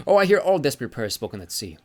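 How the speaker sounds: airy and pleased with himself; jovial sea god. Acted. Sea god explains himself to Magnus, cheery. Njord voiced in story.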